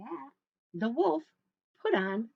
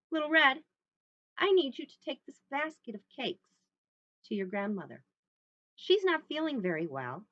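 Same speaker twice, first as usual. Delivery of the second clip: lightly voiced mother, firm and careful; mother's instructions; 4 dB louder than usual. Mother sends Little Red to Grandma, gently firm.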